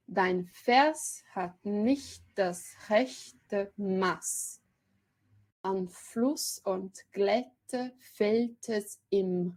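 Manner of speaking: each syllable weighed, very slow; slow poem recitation. Shown as a demonstration. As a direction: lecturer reciting verse to show its metre, very slow. Reads German verse slowly.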